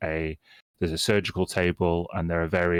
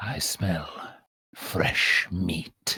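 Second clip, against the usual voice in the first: ghoul-like voice. Voicing a ghoul who sniffs a player: ghoul voice. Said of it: "the ghoul kind of scurries over to you".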